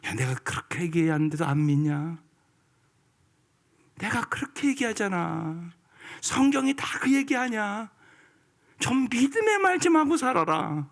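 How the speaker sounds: preacher voicing God chiding unbelief; God scolding. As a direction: voice a frustrated God pleading. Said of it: "하나님 그러지 않겠어요?".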